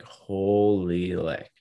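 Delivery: slow, drawn-out amazement; amazed. Retold or imitated. Player learning how far a fan flew, stunned. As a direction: stretch it out, taken aback. Retelling his amazed reaction.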